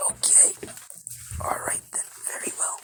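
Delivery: hushed, intimidated assent; under pressure. A narrator's reading. Nezu yielding under Deku's pressure, cowed. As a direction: give in quietly, voice mostly gone. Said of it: "feeling the most pressure".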